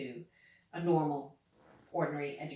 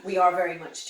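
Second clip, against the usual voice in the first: laughing; 10 dB louder, faster than usual. Real, not acted. Joins the laugh, agreeing.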